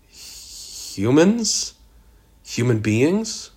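hesitant question, swooping high at the end; alarmed disbelief. A narrator's reading. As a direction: ask it aghast, pitch climbing. Ira alarmed at possible human victims.

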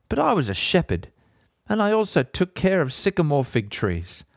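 measured, earnest Bible reading; podcast host reading scripture aloud. Acted. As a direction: read the chapter with gravity. Reads Bible chapter aloud.

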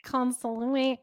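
"consoling" garbled as CON-sl-ngy; mispronunciation attempt. Shown as a demonstration. Host tries the word for co-host, mangled "consoling" as CON-sl-ngy. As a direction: stumble through "consoling" with stress on CON. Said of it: "wrong emphasis on the wrong syllable".

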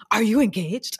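loud, excited group-of-friends shriek; excited squeal. Retold or imitated. Women greeting their friend's engagement news, excited squeal. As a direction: squeal the question in delighted disbelief. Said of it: "they all just, like, scream".

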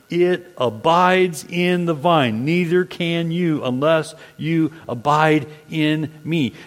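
slow, deliberate scripture reading; measured reading of the words of Jesus. Acted. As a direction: read the verse out slowly. Reads verse four.

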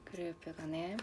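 talking while chewing; mouth full. Real, not acted. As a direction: speak through a mouthful of food. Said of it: "食べながら喋ってる".

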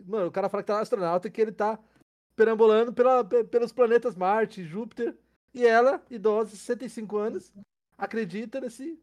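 loud, high, fighting back laughter; talking through suppressed laughs; stifled giggles. Real, not acted. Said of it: "eu não consigo parar de rir".

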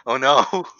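high, loud cry of dread; hammed-up alarm; mock panic. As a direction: act out sudden realization of trouble. Acting dread of forgotten chore.

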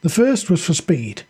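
measured fiction narration; story narration. A narrator's reading. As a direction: read it out as a dramatic story.

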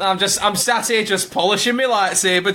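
hint of a Yorkshire lad; mock Yorkshire accent. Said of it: "Don't know why I'm from Yorkshire".

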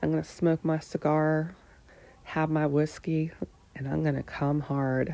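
put-on half-hearted Southern US accent; imitated Southern accent. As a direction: quote him with a hint of a Southern accent. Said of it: "he said to me in a Southern accent".

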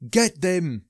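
loud villain shout. A narrator's reading. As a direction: yell it as an order. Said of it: "Doctor Wicked shouts".

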